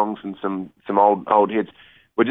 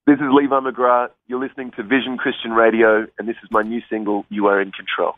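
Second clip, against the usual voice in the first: radio DJ voice. Shown as a demonstration. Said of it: "put on your best D J voice".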